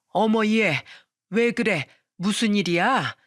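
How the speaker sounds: put-on mildly alarmed older woman asking; startled mother-in-law. A narrator's reading. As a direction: ask with a touch of startled concern. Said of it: "어머님은 깜짝 놀라". (살짝 놀란 시어머니 목소리)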